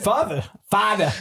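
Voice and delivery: put-on Boston accent, "Father" with dropped r; a priest greeted in Boston accent. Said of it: "you know, in the Boston accent".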